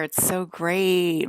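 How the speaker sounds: drawn-out sarcastic praise; slow sarcastic drawl. Real, not acted. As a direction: say it slowly, dripping with sarcasm. Sarcasm about being attacked.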